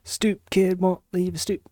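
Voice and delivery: breathy whisper of a cartoon line; hushed in-joke whisper; whispered quote. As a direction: slip the quote in under your breath. Quoting Hey Arnold aside.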